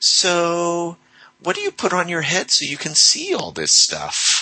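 mock very high, sugary-sweet, innocent sing-song. Retelling how she answered his explanation of role playing: imitating her sweetest voice. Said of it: "said in the sweetest voice".

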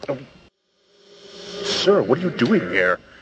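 butler voice, caught off guard and shocked. Voicing a butler who is shocked to see a player: shocked butler voice. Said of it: "He looks shocked to see you".

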